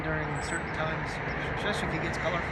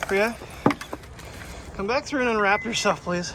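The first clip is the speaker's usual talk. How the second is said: calling the dog back; 4 semitones higher, 3 dB louder than usual. Real, not acted. Asking dog to untangle leash.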